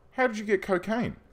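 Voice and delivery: disbelieving gasp of a question; incredulous. Real, not acted. Discovers prisoner on cocaine.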